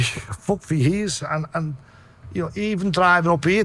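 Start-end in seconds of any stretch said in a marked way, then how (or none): 0.0-1.2 slow, laughing at the pain; rueful laugh. Real, not acted.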